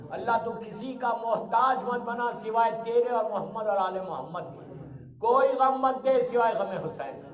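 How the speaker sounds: measured petitions, each phrase falling at its end; congregational prayer. Real, not acted. Preacher asking God for protection and forgiveness, earnest prayer. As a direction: lead the gathering in earnest supplication.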